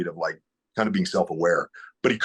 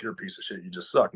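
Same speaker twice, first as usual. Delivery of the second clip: much softer, a muttered put-down; lightly voiced sneering inner critic, hushed; 2 semitones lower, 4 dB quieter than usual. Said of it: "Instead of that bitch voice".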